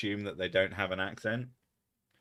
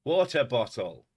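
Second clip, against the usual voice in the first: posh British WATER BOTTLE, louder and carefully sounded; 4 semitones higher, 6 dB louder than usual. Shown as a demonstration. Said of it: "I'm just posh".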